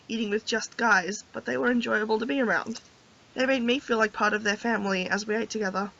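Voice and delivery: soft, low-key storybook reading; story narration. A narrator's reading. Player reads the heroine's thoughts, soft story narration. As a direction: read her inner thoughts quietly and evenly.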